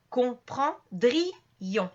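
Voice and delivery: comprendrions slow, with a clear break between ri and ons; syllables separated. Shown as a demonstration. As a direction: pronounce comprendrions as compren-dri-ons, i and on apart. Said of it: "Ici le I et le on vont être séparés".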